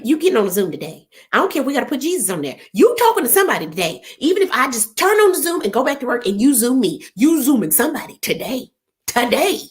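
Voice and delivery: fast, bossy, rising on the ultimatums; mock scolding daddy. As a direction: lay down the law to her father. Scolding daddy about the meeting.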